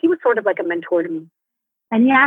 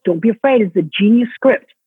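louder, firm coaching push; mentor urging; 5 dB louder than usual. Retold or imitated. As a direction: urge her on like a mentor in the wings. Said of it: "He would say".

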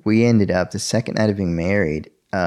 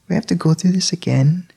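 mock-exasperated, much higher wife voice; 10 semitones higher, 3 dB louder than usual. Wife teasing her crying husband, higher and exasperated. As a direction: roll your eyes at him going through this again.

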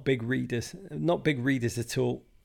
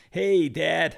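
put-on a clumsy, half-hearted American accent, a bit louder; bad American accent; 4 semitones higher, 5 dB louder than usual. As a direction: mimic his kids' American accent, badly. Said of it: "I can't even do an American accent".

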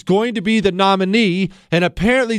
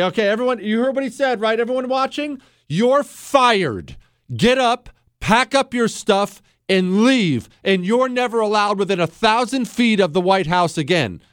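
acted boss firing staff; 3 semitones higher than usual. Boss firing the whole staff in front of everyone, commanding.

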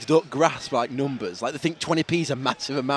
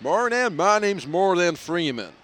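slow, lilting actor introduction; drawn-out film-star impression; Morgan Freeman; 3 semitones higher, slower than usual. Host introducing himself as the actor, slow impression. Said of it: "That guy sounds just like him".

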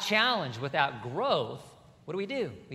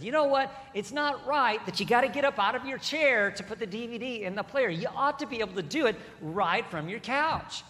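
lightly voiced grumbling somebody, higher; a hint of a whiny complainer; mock complainer; 5 semitones higher than usual. Preacher voices a grumbler demanding a remote.

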